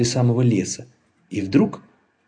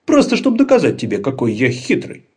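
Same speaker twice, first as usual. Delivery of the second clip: boasting trickster; 3 semitones higher, 4 dB louder than usual. Acted. Laban brags on.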